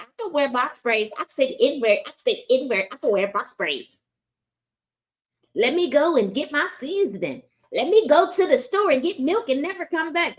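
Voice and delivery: airy, put-on voice of a white ancestry bragger; mocking white folks. Mocking white viewers who brag about DNA results, put-on voice. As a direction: lampoon the DNA-test crowd. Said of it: "Talking about".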